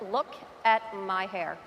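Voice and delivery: deflated mock horror at herself; acted dismay. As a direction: drop out of presenter voice, appalled. Breaks off take, dismayed at herself.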